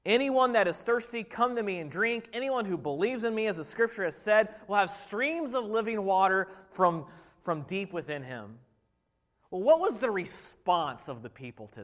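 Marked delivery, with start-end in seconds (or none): 0.0-8.6 measured, earnest reading of the verse; scripture reading. Acted. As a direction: read it like holy words to the congregation. Reads scripture quote aloud.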